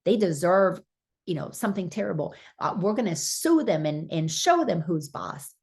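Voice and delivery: a hint of a petty, indignant ego rattling along fast; mock ego voice. Preacher mocking the ego's voice for the congregation, fast and lightly indignant. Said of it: "you hear the voice going".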